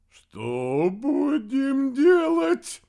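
high, thin, slow frightened squeak. A narrator's reading. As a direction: lose all your bravado. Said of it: "тонким голосом поинтересовался".

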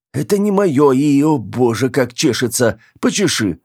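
high-pitched agitated complaint; distraught protest. Acted. Girl disowns borrowed body and begs for help, distraught. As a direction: start very high, whine on urgently.

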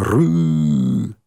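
low growled tiger roar. A narrator's reading. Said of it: "зарычал на меня".

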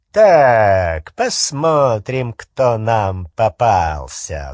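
slow, loud, savoring menace; sneering panto villain relishing the catch; gloating. Acted. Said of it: "злорадно произнёс над головой Фенрир".

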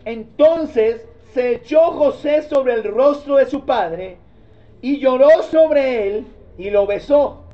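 slow, solemn Bible reading; measured church reading; scripture reading. Acted. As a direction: read the verse with reverence. Reads scripture aloud.

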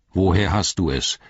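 a touch of royal sternness; stern. Acted. King questioning Eomer about the sword, understated stern. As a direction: demand it firmly, mildly stern. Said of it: "sagte Theoden streng".

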